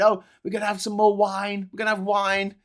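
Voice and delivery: a hint of breezy, indulgent mockery; Richard Tice. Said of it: "you got Richard Tice there saying".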